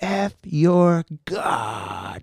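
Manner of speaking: feral, animal-like growled snarl. Retelling what a growling teenager said right at him, imitating his growling voice. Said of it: "And a voice and everything".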